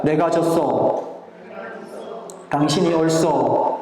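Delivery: 경상도 사투리로 천천히; Gyeongsang dialect. Shown as a demonstration. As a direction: lead the congregation in Gyeongsang dialect. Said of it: "경상도 말로 하니까".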